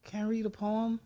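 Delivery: put-on childhood self. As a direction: ask shyly small and high, like a kid phoning in. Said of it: "this is how it would start".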